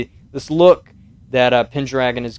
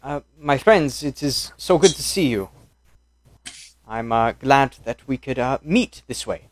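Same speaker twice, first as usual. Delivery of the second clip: put-on Italian accent. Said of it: "to do Italian and British".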